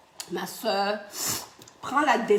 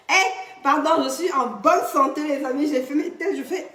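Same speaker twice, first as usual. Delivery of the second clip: laughing; 4 semitones higher, 5 dB louder than usual. Real, not acted. Laughs off her coughing fit.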